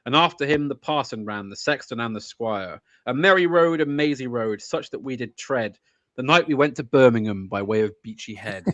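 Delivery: rolling, rhythmic ballad recital; poem recital. Acted. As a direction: let the verse swing along by heart. Recites Chesterton from memory.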